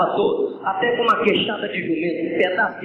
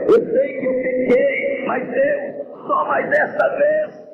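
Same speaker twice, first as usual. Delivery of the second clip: much higher, wailing plea; crying shout. Acted. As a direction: scream it out through tears. Samson's climactic cry.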